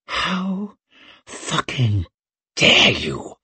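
furious hiss, word by word. A narrator's reading. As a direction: hiss it slowly with held-in rage. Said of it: "she hissed".

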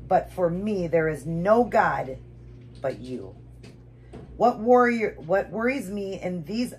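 slow, halting devotional reading with real feeling; emotional prayer. Real, not acted. Reader asks God to keep her from idols, emotional. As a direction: pray earnestly, moved by the words. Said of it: "I got a little emotional here".

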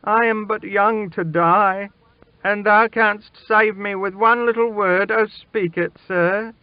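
put-on high, urgent boy's plea; imploring, pitched high and building; desperate pleading. A narrator's reading. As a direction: beg for your life. Boy begs king for his life.

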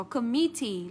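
committee as com-MIT-tee; weight on MIT in committee; stress on second syllable. Shown as a demonstration. Teacher pointing out the exception, committee as com-MIT-tee. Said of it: "nhấn trọng âm âm tiết số hai".

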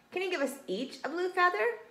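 high, rising hopeful question; eager animal shouting. A narrator's reading. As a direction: ask eagerly as excited animals. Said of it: "shouted Downy the donkey".

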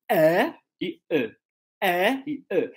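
first "ah" stressed and open, second a weak uh; carrot versus schwa. Shown as a demonstration. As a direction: contrast a strong "ah" with a neutral one. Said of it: "É praticamente a tonicidade".

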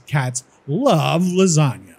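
slow, with "love" leaned on; stress on love. Shown as a demonstration. Reading the result to viewers, slow with "love" stressed. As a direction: read it slowly and make "love" stand out. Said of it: "wrap this love up with emphasis".

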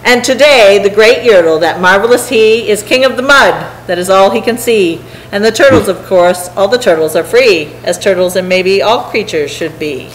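lively, rhythmic rhyming read-aloud; story narration. A narrator's reading. Reader telling a turtle tale to listeners, rhythmic narration. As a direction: read it to children in a bouncing verse rhythm.

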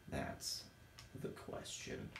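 breathy whisper, a mock-dramatic musing; whispered aside. Real, not acted. Lost player whispers to himself about where he is, hushed. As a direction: lean in and whisper it like a riddle.

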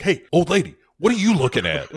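high, loud hammed-up bully; mock thug yell. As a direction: bark it at the old lady like a bus thug. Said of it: "is yelling at this old lady".

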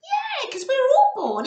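high, loud eager puppet squeal; excited puppet voice. Acted. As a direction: play the little puppet bursting with excitement.

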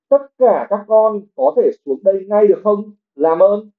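mẹ gọi to; bellowing. A narrator's reading. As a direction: call the kids down from below. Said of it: "Bà Weasley giống lên".

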